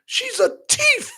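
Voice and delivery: put-on high Nigerian accent, thief stretched. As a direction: accuse her in a Nigerian accent. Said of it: "I'm gonna say it like the Nigerian".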